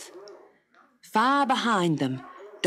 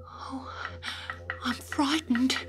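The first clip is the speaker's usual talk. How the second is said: put-on small scared girl's voice, higher; frightened whisper; 7 semitones higher, 6 dB quieter than usual. Dot to the kangaroo, mildly frightened. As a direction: Dot admits her fear, a touch breathy. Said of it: "Dot whispered".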